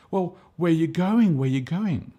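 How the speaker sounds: high, loud, puzzled questioning as Thomas; Thomas asking. Retold or imitated. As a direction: voice a bewildered disciple calling out. Thomas asks where Jesus goes.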